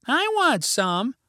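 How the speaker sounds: put-on high, slow child's voice; eager kid. A narrator's reading. A party kid asking for carrots, high eager voice. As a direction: pipe up high, stretching the words.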